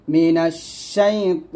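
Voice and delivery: শাই ত with a thick heavy ط; slow, thick ত sound. Shown as a demonstration. Teacher showing the heavy ত in মিনাশ শাই ত. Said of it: "ত বলতে হবে মোটা করে".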